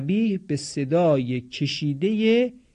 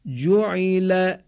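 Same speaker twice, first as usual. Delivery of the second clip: slow, drawn-out syllables on a raised, level tone; repeat-after-me model; 4 semitones higher, much slower than usual. Shown as a demonstration. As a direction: stretch each syllable evenly for learners to repeat. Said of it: "بعد از من تکرار کنید". (شمرده و کشیده، برای تکرار شاگردها)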